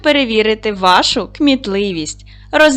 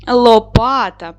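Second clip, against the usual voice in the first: «Лопата» drawn out syllable by syllable; slow, even syllables, «Ло-па-та»; teacher modelling the pupils' answer slowly; slow, clear answer; slower than usual. Shown as a demonstration. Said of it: "Наступне слово у нас яке?".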